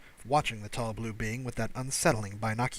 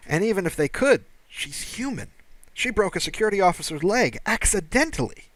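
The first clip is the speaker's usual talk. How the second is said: a higher-pitched, anxious alien officer voice; alien security officer; 4 semitones higher, 5 dB louder than usual. Acted. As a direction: play the nervous station officer, voice pitched up.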